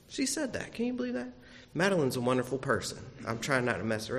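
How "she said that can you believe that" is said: mock outrage. Real, not acted. Mock outrage at daughter's remark.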